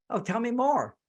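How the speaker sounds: eager. Shown as a demonstration. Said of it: "Like a little bit of eagerness".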